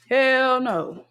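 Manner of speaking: high, drawn-out outright refusal; emphatic refusal. Real, not acted. Refusing to go near restrooms, high emphatic protest. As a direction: stretch it high in total rejection.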